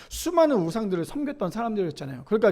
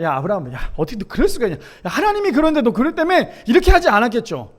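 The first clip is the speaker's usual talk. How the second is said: mild mock scolding; 4 dB louder, faster than usual. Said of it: "얼마나 호통을 쳤겠어요".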